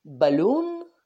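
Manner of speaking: slow and clear. Shown as a demonstration. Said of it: "Por lo tanto".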